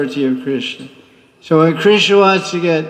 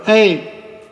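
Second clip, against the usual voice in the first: put-on Radharani teasing a new girl; 4 semitones higher than usual. Radharani voiced addressing the new girl.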